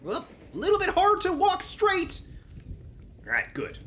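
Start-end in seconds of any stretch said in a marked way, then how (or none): 0.0-2.2 tipsy wobbly high voice; drunk. Pretend. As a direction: play it slightly drunk. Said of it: "We start our quest drunk".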